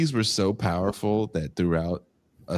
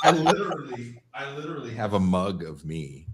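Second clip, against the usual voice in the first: laughing; 3 semitones higher, 4 dB quieter than usual. Real, not acted. Laughing about own mug.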